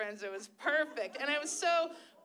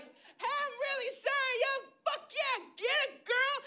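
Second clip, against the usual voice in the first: high, awkward apology; sheepishly high cheer; high apologetic hype; mock apology; 11 semitones higher than usual. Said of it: "be like".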